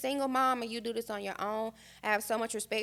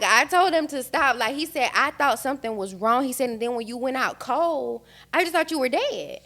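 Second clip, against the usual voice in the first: loud, raised-pitch retelling of panic; urgent alarm; 3 semitones higher, 9 dB louder than usual. Retold or imitated. Husband telling wife he thought she was dead, alarmed. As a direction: push it out forcefully, reliving the scare.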